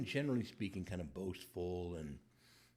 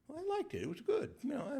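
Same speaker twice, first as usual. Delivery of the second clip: sheepish laugh; faster than usual. Pretend. Mock friend dodging question.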